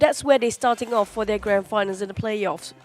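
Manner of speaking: stuffy nose, blocked nasal sound. Real, not acted. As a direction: talk through a congested nose. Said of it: "with my very nosy voice right now, nasal voice".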